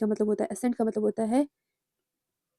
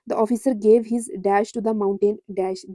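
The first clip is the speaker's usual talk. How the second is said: slow dictation reading; much slower than usual. Shown as a demonstration. Reads quiz sentence aloud slowly.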